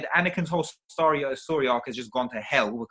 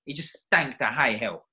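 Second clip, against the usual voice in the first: louder, rising indignation; worked-up rant; 6 dB louder than usual. Real, not acted. Ranting to friends about a bad film, getting irate. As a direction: vent about the movie, getting heated. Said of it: "Simmer down, simmer down, settle down".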